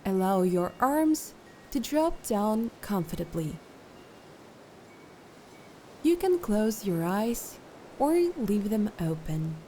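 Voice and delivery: calm, unhurried instructions with long pauses; guided meditation. Acted. Meditation guide settling listeners into posture and breath, calm guided meditation. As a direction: lead them gently through settling and breathing.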